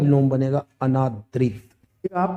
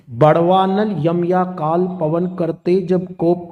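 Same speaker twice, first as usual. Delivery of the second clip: slow, measured verse reading; poem recitation; 2 semitones higher, slower than usual. Acted. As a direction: declaim the lines slowly. Recites Dinkar lines. (धीमा कविता पाठ)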